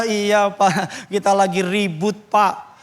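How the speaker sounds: lightly voiced hesitant congregant; short, reluctant admission. Congregant confessing to the pastor bit by bit, lightly voiced reluctance. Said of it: "Jemaat gitu kalau ngomong tuh suka pendek-pendek".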